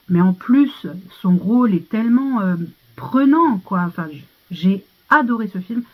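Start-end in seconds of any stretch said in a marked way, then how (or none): none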